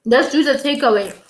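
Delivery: talking while chewing; chewing food between words; mouth full. Real, not acted. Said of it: "excuse my chewing".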